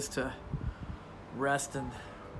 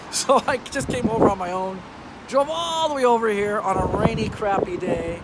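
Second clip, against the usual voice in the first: loud outdoor voice; 6 semitones higher, 8 dB louder than usual. Real, not acted. Talking into phone outside in rain.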